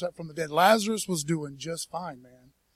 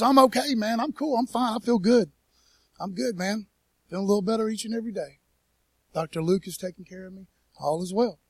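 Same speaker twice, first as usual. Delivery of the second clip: reassuring buddy; 2 semitones higher, 4 dB louder than usual. Retold or imitated. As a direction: wave off their worry like a cheerful friend. Epaphroditus reassuring worried friends.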